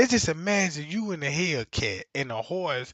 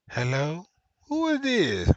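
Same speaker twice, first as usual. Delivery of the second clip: mock side chick. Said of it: "she gonna call that boo thing up".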